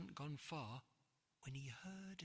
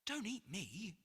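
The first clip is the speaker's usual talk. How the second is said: cried; 5 semitones higher than usual. Acted. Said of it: "cried George".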